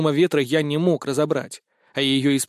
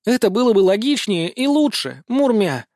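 high, louder indignant retort; 7 semitones higher, 4 dB louder than usual. A narrator's reading. Cat goddess indignant at her reckless master, higher and louder. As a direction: bristle at him, offended. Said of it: "возмутилась кошка".

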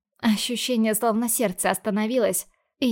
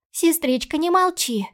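put-on higher and louder, anxious girl; frightened little sister; 7 semitones higher, 3 dB louder than usual. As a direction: pepper her sister with scared questions. Sister begs her to speak.

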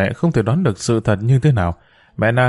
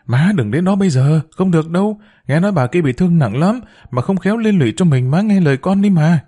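high, pleading to stop her mother; urgent pleading; 6 semitones higher than usual. Acted. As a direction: beg her not to go, voice pitched up. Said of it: "Hậu quyết tâm cản mẹ".

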